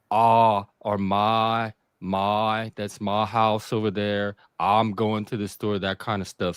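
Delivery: "my" and "I'm" with long, open "ah" vowels; long Cajun I. Shown as a demonstration. Showing the AI Cajun vowels, "my" as long "mah". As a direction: stretch the I in "my" to "mah". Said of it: "one thing the Cajuns do, our eyes are, like, long".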